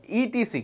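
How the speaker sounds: "ইটিসি" read as three letters, ee-tee-see; the discouraged letter-name reading of "ইটিসি"; wrong spoken abbreviation. Shown as a demonstration. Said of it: "বলা যাবে না".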